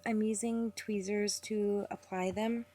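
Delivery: slow, unhurried tutorial talk; talking slowly. Real, not acted. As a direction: take your time over each word. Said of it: "like, really slow".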